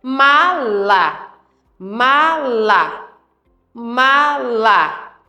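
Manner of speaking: "Mala" said slowly, each syllable apart; spaced syllables. Shown as a demonstration. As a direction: tap out "Mala" beat by beat. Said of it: "falamos com passado". (fala compassada, "Ma-la")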